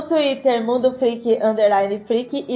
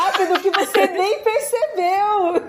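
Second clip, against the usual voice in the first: laughing; 10 semitones higher, slower than usual. Pretend. Host joking, laughing.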